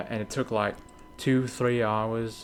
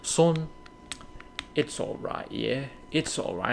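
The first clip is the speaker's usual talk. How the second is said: gentle comforting dad; 3 semitones higher than usual. Retold or imitated. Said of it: "he was like".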